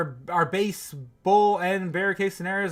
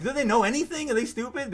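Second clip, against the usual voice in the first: mock incredulous; 5 semitones higher than usual. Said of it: "Basically is what I'm saying".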